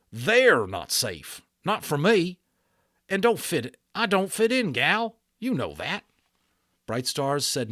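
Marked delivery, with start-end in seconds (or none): 0.1-6.0 upset Boone. A narrator's reading. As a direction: push back, hurt and stubborn.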